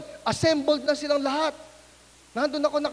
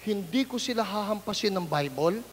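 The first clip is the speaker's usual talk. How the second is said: softer meek promise; 5 semitones lower, 6 dB quieter than usual. Retold or imitated. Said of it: "Sabi ko".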